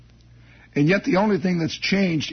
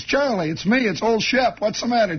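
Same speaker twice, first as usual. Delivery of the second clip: pleading call; 6 semitones higher than usual. Retold or imitated. Pleading with sobbing friend.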